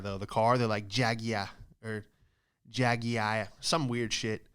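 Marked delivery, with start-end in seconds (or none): 0.9-3.5 Jaguar said as JAG-yoo-ar in a British accent. Shown as a demonstration. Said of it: "when they say Jaguar".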